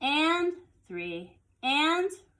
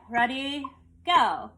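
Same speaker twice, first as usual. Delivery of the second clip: count-in; 3 semitones higher, 4 dB louder, slower than usual. Shown as a demonstration. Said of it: "my tas would be the same way".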